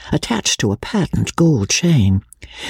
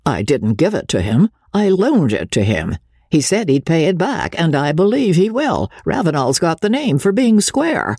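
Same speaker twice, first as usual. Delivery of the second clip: a hint of a brisk, matter-of-fact older woman; lightly voiced, plain-spoken businesswoman; madam setting the visitor straight; blunt madam; 4 semitones higher than usual. Hetty Chilson answers Magnolia.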